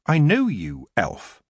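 put-on the young witch Tiffany recognizes the elf; Tiffany, stern. A narrator's reading. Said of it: "she said".

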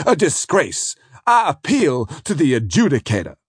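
high, loud indignant tirade; outraged counsel. Acted. Defence counsel rages at the prosecutor, high and loud. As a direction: tear into him, scandalised.

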